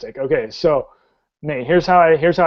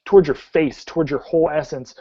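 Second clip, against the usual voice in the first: animated scene setting with drawn-out action words; dramatic tabletop storytelling; game master narration. Acted. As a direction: paint the action vividly, stretching key verbs.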